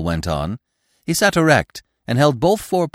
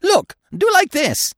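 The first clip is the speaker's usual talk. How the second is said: very high, drawn-out bird voice; gleeful woodpecker; 4 dB louder, slower than usual. A narrator's reading. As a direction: crow it slowly at the top of your range.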